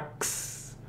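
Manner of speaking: Ks hissed softly like a cymbal. Shown as a demonstration. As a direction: make a crisp Ks sound. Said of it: "Quase como um prato de bateria".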